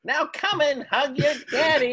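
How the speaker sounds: creepy demon voice. Acted. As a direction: lure them like a monster. Revealed demon luring.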